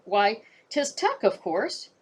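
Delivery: slow, hesitant stalling; buy time, drawn out. Acted. Boy stalls the guard while thinking up an answer. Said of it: "he finally said".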